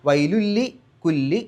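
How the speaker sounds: വൈലുല്ലി കുല്ലി drawn out, with a doubled lam; careful tajweed recitation; slow recitation demo. Shown as a demonstration. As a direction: chant വൈലുല്ലി കുല്ലി slowly, with the merge clearly heard. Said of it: "ഷദ്ദുള്ള ലാമ് പറഞ്ഞാൽ മതി".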